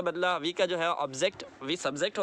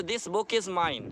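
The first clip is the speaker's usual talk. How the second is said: slow example; much slower than usual. Shown as a demonstration. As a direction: say it slowly and clearly. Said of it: "mine बोला तो फिर mine के साथ book नहीं लगाना".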